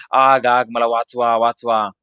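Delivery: storyteller's mock scream, loud at the start; screaming ghost. A narrator's reading. Stung ghost begs to be saved, mock shriek. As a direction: cry for help in mild panic. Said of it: "भूत किंकाळी फोडून म्हणाले".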